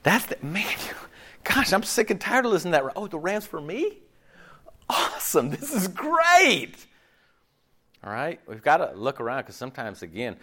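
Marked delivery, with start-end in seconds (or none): 3.0-6.7 sarcastic. Retold or imitated. Sarcastic mock thanks to God.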